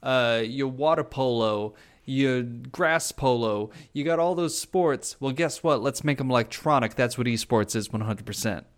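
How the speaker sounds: put-on Boston-Brooklyn accent. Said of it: "Brooklyn accent".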